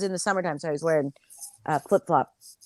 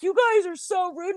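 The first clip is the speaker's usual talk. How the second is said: high, whiny complaint; whiny Bill; 11 semitones higher than usual. Retold or imitated. Bill whining at the couple about rudeness. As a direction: sulk it out like a wounded friend. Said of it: "And Bill's like".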